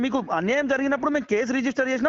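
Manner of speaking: angry officer talking over a complainer; real irate shouting. Real, not acted. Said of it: "మీరు ఎందుకు అరుస్తున్నారు అసలు". (కోపంగా మందలిస్తూ అరుపు)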